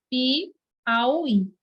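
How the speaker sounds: "Piauí" slowly broken as Pi, auí; split by syllables. Shown as a demonstration. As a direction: say "Piauí" in separate, stretched parts. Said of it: "Como é que se separa essa palavra?".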